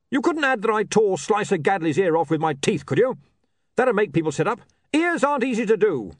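a brute fretting over his reputation; wounded barbarian. Acted. Breezok pleading with William about his reputation.

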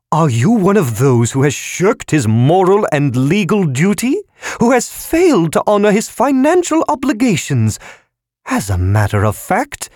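very high squeaky accusation; accusing balloon voice. A narrator's reading.

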